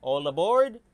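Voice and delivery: loud call for everyone to board; calling all aboard. Acted. The call to board the old steam train, loud.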